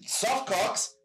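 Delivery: high, loud, laughing through the words; laughing disbelief. Real, not acted. Telling the guys about frostbite, laughing high and loud. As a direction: crack up as you tell the punchline. Climax of cold-weather story, laughing.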